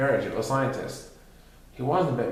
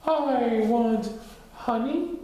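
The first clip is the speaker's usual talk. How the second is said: loud demand; 10 semitones higher, much slower than usual. Acted. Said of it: "in a voice so loud".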